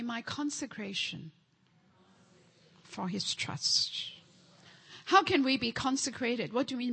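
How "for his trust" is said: soft whispered phrase. Real, not acted. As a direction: breathe it quietly. Hushed repetition of declaration.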